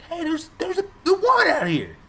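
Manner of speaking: high-pitched, stammering mock alarm; frantic attention-getting. Man alerting his buddies in the camper, frantic attention-getting. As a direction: call out urgently, tripping over words. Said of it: "Trying to get the guy's attention".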